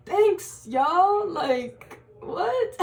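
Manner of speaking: high, bewildered thanks; mock disbelief. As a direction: take the compliment as if baffled. Acting disbelief at praise.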